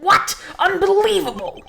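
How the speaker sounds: high, loud disbelief; shocked exclamation. Acted. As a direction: burst out in disbelief. Character shocked by permission.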